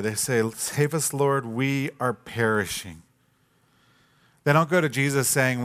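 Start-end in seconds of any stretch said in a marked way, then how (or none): 0.5-3.0 softer, slowed despairing plea; quiet despair. Retold or imitated. Disciples telling Jesus they are already dying, hopeless. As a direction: give up hope as you say it. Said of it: "they take things too far".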